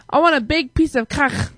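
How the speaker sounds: "cock" standing in for cake, foreign vowel; lightly imitated accent turning cake into "cock"; mock foreign accent. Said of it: "in a foreign accent".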